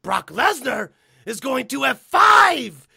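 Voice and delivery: Paul Heyman impression. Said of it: "I would love to hear Paul Heyman just go".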